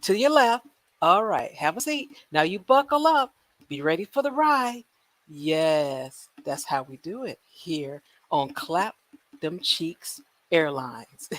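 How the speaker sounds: lightly voiced cheery boarding attendant; a hint of a flight attendant welcoming boarders; playful airline gate agent. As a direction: usher the passengers on like a flight crew.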